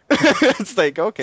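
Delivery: high, laughing "okay"; laughing disbelief. Real, not acted. Disbelief at twenty-two gigs.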